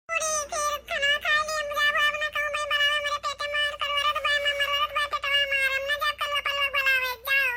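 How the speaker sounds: lightly voiced pouting kid; sulky child voice. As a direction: grumble like a refused child. Child sulking, refusing to go.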